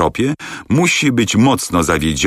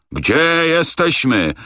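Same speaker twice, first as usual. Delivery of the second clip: much higher, very slow furious repeat; purple-faced rage; 12 semitones higher, much slower than usual. A narrator's reading. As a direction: stretch out the demand, bursting. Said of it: "powtórzył z posiniałą twarzą".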